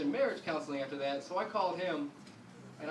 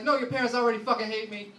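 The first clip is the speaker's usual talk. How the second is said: loud, higher urgent insistence; insistent wife; 4 semitones higher, 6 dB louder than usual. Retold or imitated. Wife insisting husband not tell his dad, loud and urgent. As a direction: push back hard and fast.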